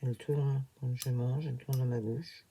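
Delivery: slight lisp from new dentures; lisping s sounds, slushy sh for s. Real, not acted. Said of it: "Je zozote un petit peu".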